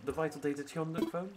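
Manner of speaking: a lightly voiced stuffy professor owl; hint of a posh museum curator; sophisticated tone. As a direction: read it like a pompous scholar, barely shifted. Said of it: "a bit of a more sophisticated tone".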